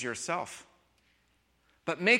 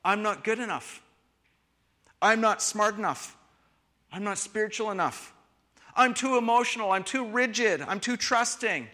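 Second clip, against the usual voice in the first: imitating self-criticism; 4 semitones higher than usual. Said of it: "how people beat themselves up".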